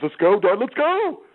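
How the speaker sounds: rising, pressing let's go; embarrassed teen urging dad to drive off; urgent hurry. Retold or imitated. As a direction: hurry Dad out before buddies see. Son hurrying to leave.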